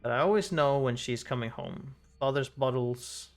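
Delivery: measured reading of game text; story narration. Acted. Reading a character's memory aloud, story narration. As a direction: read the story aloud evenly.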